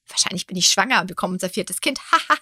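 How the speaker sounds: tossing off a joke that ends in a laugh; half-laughing, mock announcement; joking laugh. Wife teasing husband about being pregnant, joking laugh. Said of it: "Und dann lachte ich so".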